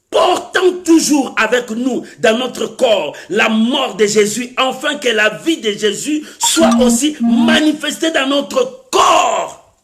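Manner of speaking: slow, emphatic Bible proclamation; ringing preacher's reading; declaimed scripture. Real, not acted. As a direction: build to a long, held final word.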